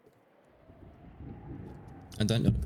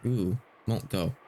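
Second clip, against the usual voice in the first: put-on stubborn child; much slower than usual. Maria refuses to leave.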